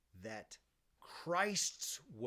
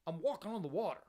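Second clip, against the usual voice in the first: higher, incredulous casual retort; acted disbelief, pitched up; Jesus; 6 semitones higher, 3 dB louder than usual. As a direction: play a baffled bro making his case. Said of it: "Like, Jesus is saying".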